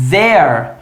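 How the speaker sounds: "there" said slowly and cleanly as the contraction; pronunciation demo. Shown as a demonstration. Teacher showing how the contraction sounds, careful. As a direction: model "there" carefully for the class. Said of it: "Olha a pronúncia".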